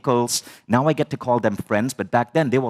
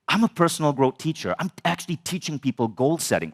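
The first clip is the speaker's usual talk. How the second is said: indignant, higher-pitched inner protest; retold anger; 5 semitones higher than usual. Student silently protesting his mentor's advice, mock indignant. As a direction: bristle as you recount your credentials. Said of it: "now I'm fucking angry".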